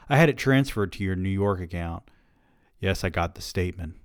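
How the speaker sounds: reading a novel aloud, steady; story reading. A narrator's reading. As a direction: narrate the scene evenly. Reads his novel aloud.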